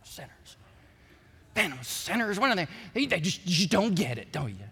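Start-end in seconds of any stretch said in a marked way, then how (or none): 0.0-2.7 scornful sneer. Retold or imitated. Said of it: "I just".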